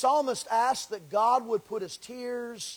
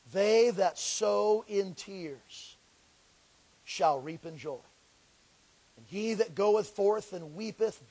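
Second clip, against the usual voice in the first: slow, solemn reading of the verse; slow scripture reading. Real, not acted. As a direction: lay each word down slowly. Reads the psalm slowly.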